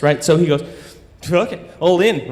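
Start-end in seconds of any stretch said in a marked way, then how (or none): 1.3-2.3 mock New Zealand accent; clumsy put-on New Zealand accent; mocked foreign accent. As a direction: imitate the newcomer's silly New Zealand accent. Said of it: "in his stupid accent".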